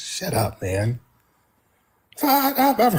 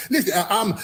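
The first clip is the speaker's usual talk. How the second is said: mocking caller; 4 semitones higher than usual. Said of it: "They call up mad at me".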